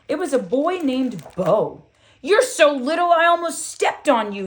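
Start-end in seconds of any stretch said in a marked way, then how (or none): 2.2-4.5 loud, high, mocking boy voice; shouting boy. Bully bumping the girl in line, loud jeer. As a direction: jeer loudly at her. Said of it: "he shouted".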